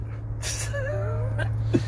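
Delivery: soft, high-pitched laughing fit; high wheezy laugh. Real, not acted. Host cracking up at his accent rant, high laugh. Joking about a weird accent.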